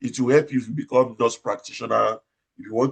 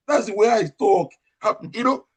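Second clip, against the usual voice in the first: high and louder, defending his natural voice; loud retort; 10 semitones higher, 3 dB louder than usual. Retold or imitated. A nurse retelling his reply to colleagues who called him loud. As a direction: insist that this is simply how you talk.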